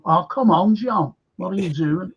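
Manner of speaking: replayed movie line in broad Scouse; Scouse accent. Showing off the accent to co-host, in Scouse. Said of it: "A Scouser doing a Scouse accent?".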